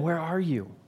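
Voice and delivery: softly voiced, mock-gentle question. Shown as a demonstration. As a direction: ask it tenderly, as a parent would not. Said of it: "saying gently to them".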